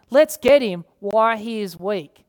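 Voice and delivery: a hint of scheming foes pouncing; plotting enemies. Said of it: "perhaps his enemies were saying".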